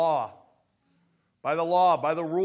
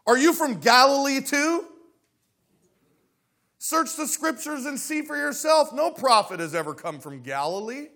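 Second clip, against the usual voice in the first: loud, much higher scornful retort; indignant retort; 7 semitones higher, 6 dB louder than usual. Acted. Pharisees rebuking Nicodemus, loud and scornful. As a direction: fire back in outrage. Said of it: "I love their response".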